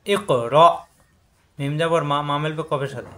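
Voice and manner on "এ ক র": এ ক bounced, র stopped in the throat; bounce, then catch. Shown as a demonstration. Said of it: "এখানে আটকে যাবে".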